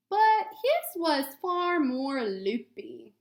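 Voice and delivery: clear, gentle storybook read-aloud; reading to children. Acted. Teacher reading a picture book to students, gentle read-aloud.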